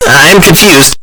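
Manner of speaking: loud, wavering admission; unsure, voice wobbling. A narrator's reading. Bucky admitting confusion to the ponies, voice wavering. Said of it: "his voice wavering".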